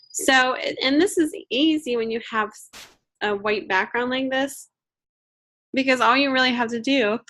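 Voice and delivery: strained voice from a sore throat; swollen throat voice. Real, not acted. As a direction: talk through a swollen throat. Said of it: "excuse me, my throat is swollen".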